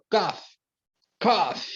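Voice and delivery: "cough" ends in F, "kof". Shown as a demonstration. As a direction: say "cough" with a final F. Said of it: "quando ele tem som de F". ("cough" com som de F)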